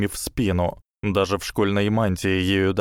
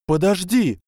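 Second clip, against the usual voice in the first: desperate cry; 10 semitones higher, 4 dB louder than usual. A narrator's reading. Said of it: "воскликнула Гермиона с отчаянием в голосе".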